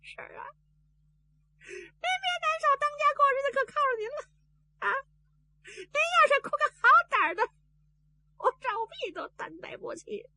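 high, tearful consoling; crying while comforting. Acted. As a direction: console her through his own sobs. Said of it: "他一边哭， 他一边还劝".

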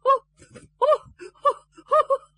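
loud high strained sobbing sounds that won't come; girl straining to sob for her betrothed; forced sob attempts. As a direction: try to cry and fail, loud and high. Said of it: "火了半天没哭出来".

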